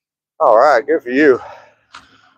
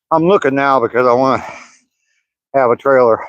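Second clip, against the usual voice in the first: out of breath. Real, not acted. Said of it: "Sorry, I'm out of breath".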